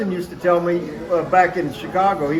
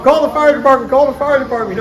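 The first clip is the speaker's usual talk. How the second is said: higher, louder mock panic shout; retold yelling dad; 6 semitones higher, 4 dB louder than usual. Dad rushing in yelling at mom, higher mock panic shout. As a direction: yell like dad bursting in. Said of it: "he's screaming at my mom".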